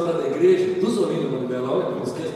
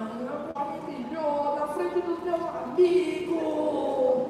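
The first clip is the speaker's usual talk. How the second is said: slow, high, drawn-out protest; whiny teen complaint; 8 semitones higher, much slower than usual. Retold or imitated. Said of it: "Eu falei". (reclamação arrastada de adolescente)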